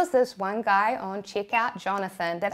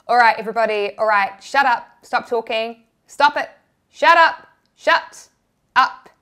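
shouting teacher; 7 dB louder than usual. Retold or imitated. History teacher yelling at chattering class to shut up. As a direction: bark at a noisy classroom, louder each time. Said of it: "our teacher was like".

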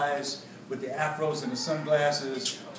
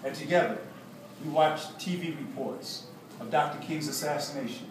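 measured, deliberate storytelling read; narrated account with weighted pauses; memoir narration. A narrator's reading. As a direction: read your own story aloud to an audience. Reads a memoir aloud.

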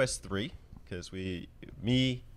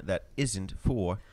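put-on Terry's accent; 3 semitones lower than usual. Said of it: "I added Terry's accent there".

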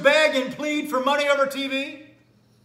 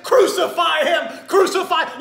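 crowd's cry; 4 semitones higher, 5 dB louder than usual. Acted. Crowd shouting crucify.

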